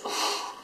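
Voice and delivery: breathy, voiceless reaction; imitated startled gasp. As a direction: let out a mimicked little gasp. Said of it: "he saw me and he goes".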